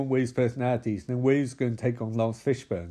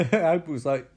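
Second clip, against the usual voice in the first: laughing; 3 semitones higher than usual. Real, not acted. Laughing at own joke.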